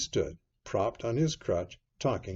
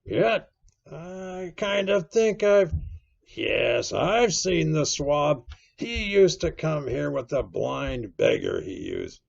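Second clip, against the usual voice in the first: drawn-out, higher voice searching memory; wavering, pondering seaman's voice; musing Silver; 5 semitones higher, 4 dB louder, slower than usual. A narrator's reading. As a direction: think aloud, then seize on the recollection.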